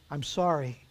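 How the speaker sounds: soft, quiet apology; subdued apology. A narrator's reading. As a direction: drop the volume and apologise. Auctioneer lays down gavel, apologises.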